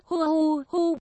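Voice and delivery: a put-on wail of grief; hammed-up weeping; acted sobbing. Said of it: "Ngọc Lan khóc càng lớn hơn".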